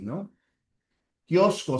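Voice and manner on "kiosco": Kiosco with force on kios; Kiosco, fuerza en kios; stress on KIOS. Shown as a demonstration. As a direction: lean on the first syllable of Kiosco. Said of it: "hay que colocarle fuerza de voz".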